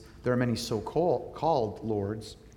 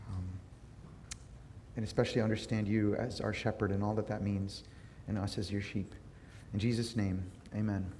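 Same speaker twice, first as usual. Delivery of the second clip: quiet, low-key spoken prayer; 3 semitones lower, 6 dB quieter than usual. Real, not acted. Pastor leading the congregation in prayer, subdued. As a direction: pray gently, pausing between phrases.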